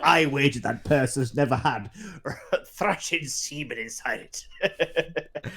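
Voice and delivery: pirate captain. Acted. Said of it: "the Captain ... says".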